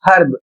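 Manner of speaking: हर्ब with a clear H at the start; H sounded in herb. Shown as a demonstration. Teacher showing students herb keeps its H, said clearly. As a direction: say हर्ब with a breathy H at the front. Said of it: "यहां पर एच का उच्चारण किया जा रहा है".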